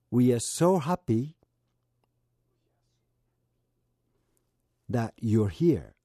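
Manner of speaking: "We are so happy", long pause, then "that you're here."; slow, with a long gap before "that you're here."; split into chunks. Shown as a demonstration. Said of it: "区切っていますので". ("We are so happy"で区切ってゆっくり)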